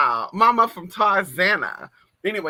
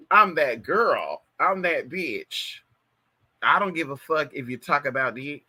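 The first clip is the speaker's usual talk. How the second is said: slow, sassy diva drawl; Miss Thing attitude; 3 semitones lower than usual. Retold or imitated. Imitating a shady Miss Thing bragging, slowly. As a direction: strut through each word. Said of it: "Like Miss Thing".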